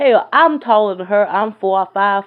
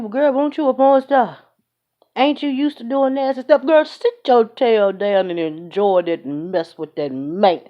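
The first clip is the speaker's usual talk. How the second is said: sassy telling-off. Real, not acted. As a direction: put her in her place with sass.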